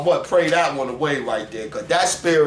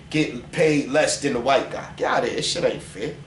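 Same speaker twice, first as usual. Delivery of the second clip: ordinary talk, nothing marked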